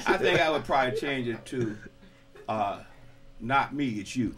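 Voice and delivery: talking through laughter; laughing. Real, not acted. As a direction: laugh through the joke line. Laughing while joking.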